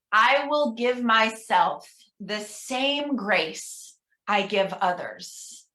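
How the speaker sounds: slow, measured leader's reading; slow affirmation reading. Shown as a demonstration. Minister reading an affirmation to the congregation, slow. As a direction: take your time on every word. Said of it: "I'm gonna read each one".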